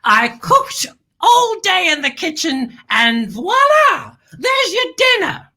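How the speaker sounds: slow build to a high flourish; example sentence. Shown as a demonstration. Host using the word in a sentence, proud flourish. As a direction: dramatically present the dish, lifting the pitch. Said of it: "Let's use it in a sentence".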